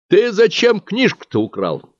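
a bookkeeper interrogating a thief; stern question. Acted. Bookkeeper sternly asks the thief why he stole. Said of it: "строго спросил его счетовод".

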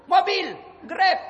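high, loud and slow altered voice; slow put-on questioner. Angel asks the maid about her car, slowly.

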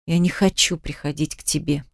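low, hushed refusal through gritted teeth. A narrator's reading. Vika refusing the boss's advances, seething under her breath. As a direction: push it out quietly, teeth clenched. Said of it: "процедила я".

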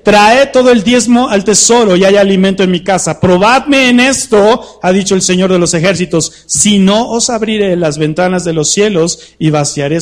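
loud, proclaiming the scripture; shouting. Shown as a demonstration. Preacher shouting the verse to the congregation, loud. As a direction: boom the verse out to the whole room. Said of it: "¿O será que no estoy gritando?".

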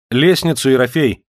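calling the servant loudly to fetch the ladder; shout. A narrator's reading. Master calling his servant to bring the ladder, shouting. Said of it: "крикнул Александр Александрович".

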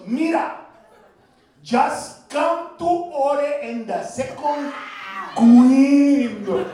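put-on slow high Spanish-accented "window" like "gwindow"; Mexican accent. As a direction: lean into the accent.

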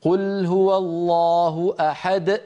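أحد ending in a glottal catch; wrong qalqala with glottal stop. Shown as a demonstration. Teacher demonstrating the common mistake, closing the throat. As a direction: shut the throat after the د of أحد. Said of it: "كيف يقول أحدهم".

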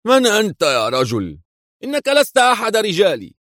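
rising into a high shocked cry; startled cry. A narrator's reading. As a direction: catch the stranger out, alarmed. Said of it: "يهتف في دهشة". (هتاف دهشة يرتفع عالياً)

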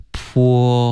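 slow, stretched "泼" as the start of "point"; syllable build-up. Shown as a demonstration. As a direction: hold the "po" sound of "泼". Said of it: "泼有一点像一个".

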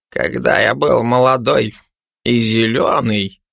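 put-on querulous old hermit. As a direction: grumble it like a cantankerous old man. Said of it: "произнёс он сварливым тоном". (сварливым тоном)

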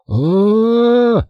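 high thin cry of shock; shrill cry. A narrator's reading. Greg cries out at the sight, high shrill cry. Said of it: "пронзительным голосом".

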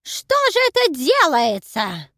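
high, loud, slow lament; loud slow old woman's lament; wailing granny. Acted. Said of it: "заголосила я".

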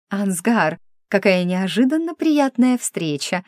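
sultry purr, lightly voiced; purring femme fatale. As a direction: purr it like a seductress. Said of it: "мурлыкнула Исабель".

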